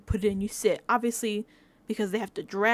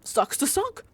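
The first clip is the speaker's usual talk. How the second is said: higher, whiny mock complaint; pitched-up mock whine; mocking Michael; 4 semitones higher than usual. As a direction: whine it like the annoying player. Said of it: "So he's standing there with Jam Jam like".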